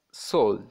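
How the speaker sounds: "sol-" cut off before the rest of soldier; first syllable alone. Shown as a demonstration. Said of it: "put a slash".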